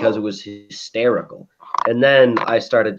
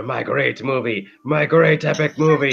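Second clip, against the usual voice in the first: Hitler boast; 3 semitones higher than usual. Retold or imitated. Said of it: "he goes over".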